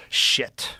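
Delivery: breathed, whispery little swear. Retold or imitated. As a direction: let it slip out under the breath. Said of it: "and she goes".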